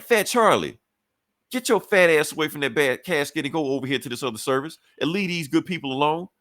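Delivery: hammed-up church lady ordering him off; scolding older auntie. Aunt scolds Charlie at funeral.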